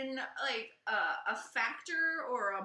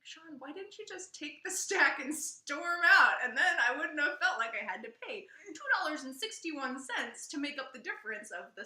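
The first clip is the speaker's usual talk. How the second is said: mock rant; 4 semitones higher, 4 dB louder than usual. Retelling ranting at husband Sean.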